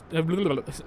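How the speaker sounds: blubbering burbled noise; tongue-tangled babble. Real, not acted. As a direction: burble nonsense as if tongue-tied. Tongue tangles before saying Scottish.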